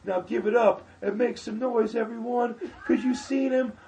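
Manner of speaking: high, loud, slow desperate announcer yell; frantic host hype shout. Retold or imitated. Host who forgot the name, shouting a desperate hype. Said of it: "He goes".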